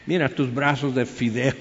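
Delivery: laughing mockery. Saul mocking young David.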